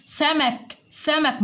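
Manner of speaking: "سمك" with a plain hissed s; tongue kept in. Shown as a demonstration. Teacher contrasts seen with tha, plain s in "سمك". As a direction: keep the tongue behind the teeth on the س of "سمك". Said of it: "ما خرجتش لساني".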